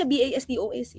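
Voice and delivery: each letter of B A S T O S said separately; spelled out letter by letter. Shown as a demonstration. Spelling out the word rude, letter by letter. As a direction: spell B A S T O S one letter at a time.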